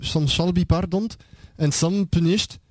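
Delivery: slow, put-on Flemish English; accent flamand. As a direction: read it slowly with a Flemish accent. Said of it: "dans le flamand d'offi". (accent flamand appliqué, lent)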